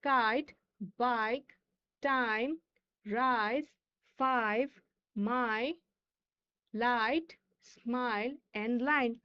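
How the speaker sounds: slow word list, drawing out the "eye" in light, smile and line; clear long I. Shown as a demonstration. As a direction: read Kite, bike, time one by one, each with a long "eye" vowel. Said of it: "এগুলোর sound গুলো ভালো করে শুনবে".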